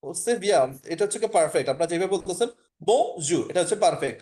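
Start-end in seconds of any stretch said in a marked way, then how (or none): 2.8-3.4 বজু ending on the vowel, no R; French বজু, final R left silent. Shown as a demonstration. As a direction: say বজু with the last R dropped. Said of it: "আর এর উচ্চারণটা এক্ষেত্রে হবে না".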